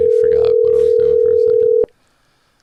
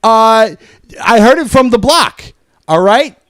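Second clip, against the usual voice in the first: raised, louder and faster angry rant; angry yelling; 3 semitones higher, 3 dB louder than usual. Acted. Caller yelling at Mason over the phone, angry. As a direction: lay into him, voice up and loud.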